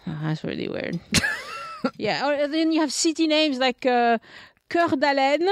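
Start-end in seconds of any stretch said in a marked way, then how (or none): 4.7-5.5 "Coeur d'Alene" with French "keur", pitched up; French pronunciation. Shown as a demonstration. French speaker unsure of English, "Coeur d'Alene" French way. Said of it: "how you say that in English".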